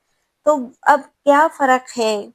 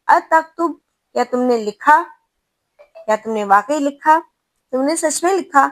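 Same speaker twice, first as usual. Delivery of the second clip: higher and louder, wide-eyed disbelief; surprised, louder question; 4 semitones higher, 4 dB louder than usual. Shown as a demonstration. Teacher asking a student in surprise, higher and louder. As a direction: ask it louder and higher, as if shocked. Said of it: "تیز آواز میں پوچھ رہے ہیں ... حیرت سے".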